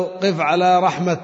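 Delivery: رحمة stopped on with a ha sound, drawn out slowly; pausal form demo. Shown as a demonstration. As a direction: slowly say "قف على رحمة" stopping on the final letter. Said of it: "قل له". (نطق "رحمة" بوقف على الهاء ببطء)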